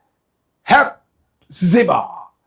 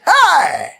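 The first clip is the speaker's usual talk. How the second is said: very high, loud whoop; crazy fan's shout; 11 semitones higher, 6 dB louder than usual. Retold or imitated. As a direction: cry out like a wildly excited supporter. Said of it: "I was so crazy. I said".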